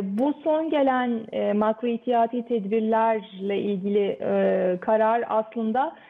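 echoey room sound; cathedral echo. Real, not acted. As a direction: voice echoing like a big hall. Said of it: "biraz sesim yankılanıyor".

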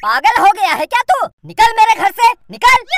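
angry shout. Acted. Throwing neighbour out.

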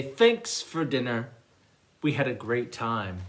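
polite thanks. Acted. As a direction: thank the host gently. Guests politely thank host.

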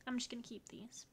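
muttering quietly to herself in a whisper; whispered aside. Real, not acted. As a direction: whisper it as a private decision.

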